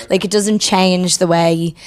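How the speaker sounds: slow, light Scottish accent. Shown as a demonstration. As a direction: slip subtly into a Scottish accent. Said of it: "that was me doing a Scottish accent".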